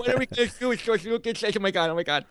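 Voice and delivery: hammed-up fanboy frenzy; starstruck fan. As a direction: imitate a flustered fan who can't cope. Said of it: "turned into Justin Bieber fans".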